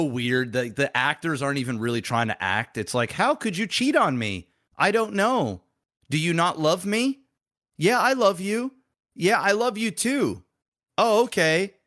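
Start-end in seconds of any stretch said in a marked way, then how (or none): 3.1-11.7 higher, emotionless bad dub actor; no emotion. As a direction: read it like a bored voice actor. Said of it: "And there's, like, no emotion".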